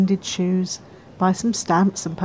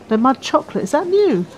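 excited interest; 6 semitones higher than usual. Acted. Spots a new flavour while ordering.

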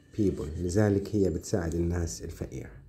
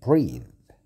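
whispered; 8 dB louder than usual. Shown as a demonstration. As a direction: breathe whispered with no voice. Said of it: "شوف النطق".

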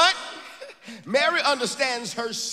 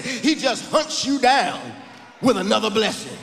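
repeated louder, preaching. Shown as a demonstration. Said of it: "I said".

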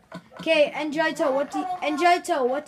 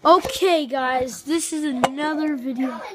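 YouTuber intro; 3 dB louder than usual. Acted.

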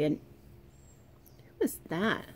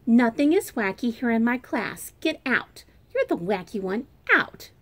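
loud, sharp telling-off; scolding teacher; 3 semitones higher, 4 dB louder than usual. Acted. Miss Bass scolds the child and orders them out, stern. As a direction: throw the kid out of class.

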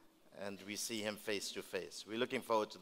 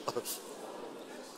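laugh; 2 semitones higher, 4 dB quieter than usual. Real, not acted. Preacher laughs at own remark.

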